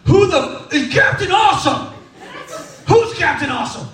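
hammed-up angry customers demanding answers; indignant yell. Annoyed diners demand who Captain Awesome is in a mock outraged shout. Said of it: "They're just like".

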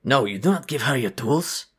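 a guard reproaching the construct; stern guard voice. Acted.

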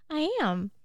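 giggling through the words; laughing. Real, not acted. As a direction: laugh while you say it. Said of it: "get you to stop laughing".

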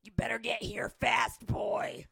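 gruff whisper. Acted.

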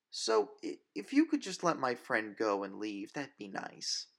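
put-on hesitant, hopeful young woman; nervous polite plea. Grace nervously asks the vampire to leave. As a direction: ask nicely though frightened.

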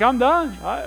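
exasperated. Retold or imitated. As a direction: throw up your hands in mock despair. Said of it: "I was like".

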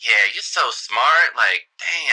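smooth-talking sleazy politician; flirty mayor voice. Acted.

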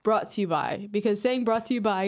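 tipsy slurring words; slightly slurred. Real, not acted.

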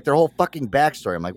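ordinary delivery

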